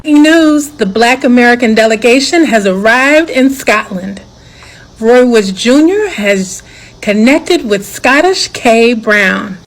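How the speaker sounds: playful newsreader announcing it slowly; jokey broadcast announcement, drawn out; mock news voice. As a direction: read it like a breaking news anchor. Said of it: "keep that voice".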